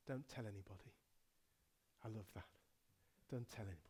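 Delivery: Jesus hushing the parents, whispering; hushed secret. Acted. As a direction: keep it secret, hush them.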